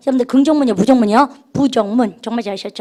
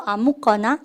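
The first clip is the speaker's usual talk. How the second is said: Seoul dialect; 2 semitones lower, 5 dB quieter, slower than usual. Shown as a demonstration. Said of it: "서울말로".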